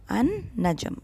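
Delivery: "an-najm" drawn out slowly on a long n; lam muted. Shown as a demonstration. Teacher repeats slowly, only the noon heard. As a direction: stretch the double n of "an-najm", no l. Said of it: "we hear only the noon".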